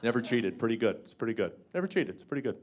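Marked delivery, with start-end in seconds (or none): none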